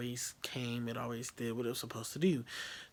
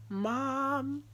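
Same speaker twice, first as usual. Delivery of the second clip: high wailing call; 14 semitones higher, 6 dB louder than usual. Retold or imitated. About to confess to mom.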